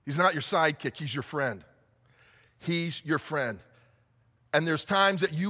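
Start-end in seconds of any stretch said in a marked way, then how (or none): 0.1-3.6 tender assurance. Acted. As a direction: reassure them gently.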